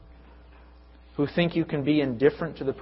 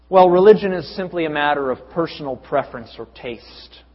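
louder, mocking the relativist view; mock relativist quote; 5 dB louder than usual. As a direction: toss it off like a shrug. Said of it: "They say things like".

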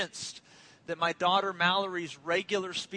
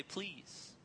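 soft imitation; 12 dB quieter than usual. Imitates baby's learned word.

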